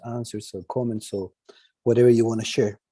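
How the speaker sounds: Spanish-accented English from Chile; Chilean accent. Real, not acted. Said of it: "I'm Chilean".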